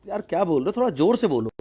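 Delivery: a half-deaf frog straining to hear. Acted.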